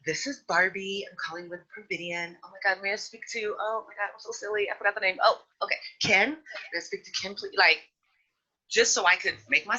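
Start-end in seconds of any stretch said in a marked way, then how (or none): 0.0-7.5 higher, bubbly sales-call voice; sweet and harmless to seem approachable; Barbie phone voice. Retold or imitated. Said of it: "my name was Barbie".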